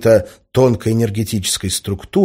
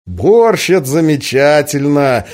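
high, loud, relishing exclamation; beaming delight; 5 semitones higher, 6 dB louder than usual. A narrator's reading. Semyon hears that borscht is promised, beaming delight. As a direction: savour it through a broad smile. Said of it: "расплылся в улыбке Семён".

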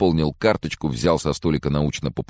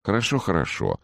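placating; 6 semitones higher than usual. A narrator's reading. Doctor placates the agitated patient.

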